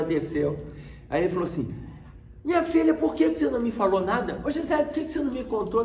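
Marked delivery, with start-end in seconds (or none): 2.4-5.8 high-pitched retold reproach; reproachful father. Father to daughter who kept the news, reproachful. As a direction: imitate dad demanding answers, quick and high. Pai cobra explicação da filha.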